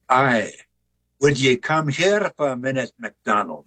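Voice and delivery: put-on light Scottish accent on a trading factor's call; a hint of a Scots burr, casually calling someone over. Trading post factor calls MacDonald over, light Scottish accent. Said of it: "Scottish accent here".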